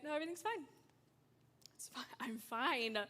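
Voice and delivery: soft, half-whispered false reassurance; forced I'm fine. Retold or imitated. Teen lying to her mom in the car, softly half-whispered.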